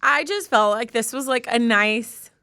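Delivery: holding back happy tears while talking; moved to tears, gathering yourself; tearful. Real, not acted. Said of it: "We might be crying again".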